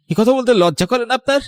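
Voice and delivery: high, sharp indignant question; outraged rebuke. Acted. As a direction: shame her for saying it. Son outraged at stepmother. (উঁচু গলায় ক্ষুব্ধ ধিক্কার)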